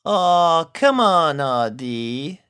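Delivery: gentle coaxing, softening at the name; calm her friend down; soothing. A narrator's reading. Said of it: "soothed Applejack".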